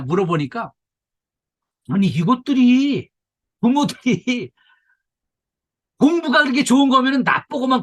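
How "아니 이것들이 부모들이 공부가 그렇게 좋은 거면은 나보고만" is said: put-on exasperated kid. Retelling children's complaints.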